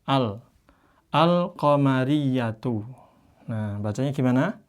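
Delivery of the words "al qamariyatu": Al-qamariyatu read slowly with the lam sounded; Arabic recitation. Shown as a demonstration. Teacher reading the example to students, slow recitation. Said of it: "dibaca apa".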